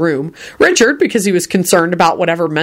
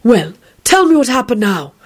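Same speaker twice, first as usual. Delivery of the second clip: sympathetic; 6 semitones higher than usual. A narrator's reading. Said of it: "he asked Quentin sympathetically".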